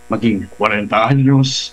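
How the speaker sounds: lightly voiced middle-aged person; hint of a mature adult; forty-year-old voice. Shown as a demonstration. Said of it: "kung paano maging".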